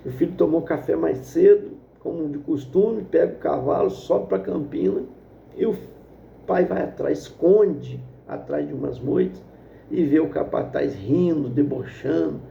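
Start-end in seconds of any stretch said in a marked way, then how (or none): none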